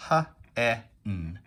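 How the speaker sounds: "H, E, N" as three separate phonics sounds; sounded out. Shown as a demonstration. Teacher segmenting hen for pupils, sound by sound. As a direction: say "huh", "eh", "nnn", then stop. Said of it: "there are three sounds that you hear in hen".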